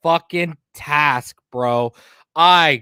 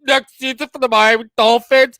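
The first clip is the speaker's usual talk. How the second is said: mocking reporter; 8 semitones higher, 3 dB louder than usual. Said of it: "and you wanna talk about".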